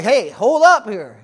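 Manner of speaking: slow, loud big-dog voice; a startled bigger dog telling the little one to hold up, slow and loud. Retold or imitated. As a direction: play the wary big dog backing off, slowly and loud. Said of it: "they're, they're like".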